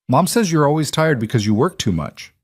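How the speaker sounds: put-on a small girl quoting her mom; little girl voice. A narrator's reading. Child repeats her mom's words.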